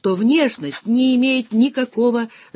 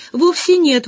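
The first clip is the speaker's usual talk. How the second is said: whispered protest out of breath; breathless whisper; 9 semitones higher, 5 dB louder than usual. A narrator's reading. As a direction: gasp it out in a whisper. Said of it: "возразила я, отдышавшись".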